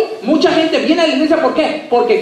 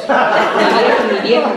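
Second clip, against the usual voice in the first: Mexican way of saying; 2 semitones lower, slower than usual. Retold or imitated. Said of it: "así dicen los mexicanos".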